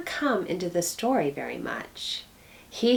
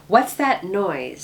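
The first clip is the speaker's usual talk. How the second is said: louder, slower startled question; sudden alarm; 3 semitones higher, 6 dB louder, slower than usual. Acted. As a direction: catch a strange sound and ask fast. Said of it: "said Lucy suddenly".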